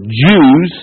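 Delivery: single word Jews pushed up in pitch; stress on Jews. Shown as a demonstration. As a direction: lean hard on the word Jews. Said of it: "let me stress that word".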